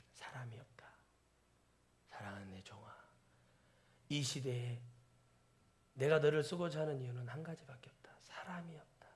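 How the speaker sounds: hushed, breathy whisper of a pleading Lord; whispered voice of God. Acted. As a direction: whisper it like a secret call. Whispers God's quiet plea.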